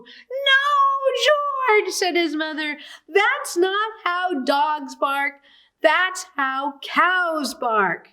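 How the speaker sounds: mother dog worried about her pup; distraught mother dog. A narrator's reading. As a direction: wail it out, then decide slowly. Mother upset, near crying.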